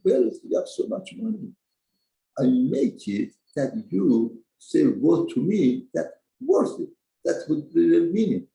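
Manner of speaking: a hint of God's stern answer; God chiding. Hashem answers the chassid.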